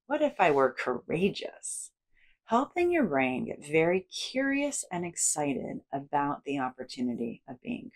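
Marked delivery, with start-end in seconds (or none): 0.1-1.9 what if with the tune changed; rising lift on "if" in "What if I were courageous?"; shifted inflection. Shown as a demonstration. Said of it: "change the inflection point on different statements".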